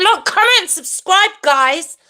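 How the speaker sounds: high, punchy chanted plug; catchphrase jingle. Shown as a demonstration. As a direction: chirp it as a channel jingle. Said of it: "what I said in my jingle".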